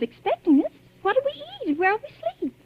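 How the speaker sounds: anxious questions. Acted. Frightened bride at empty hotel.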